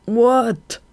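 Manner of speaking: high startled yelp; jolted awake, crying out in alarm; a sudden frightened "What?". A narrator's reading. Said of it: "cried Throb in alarm".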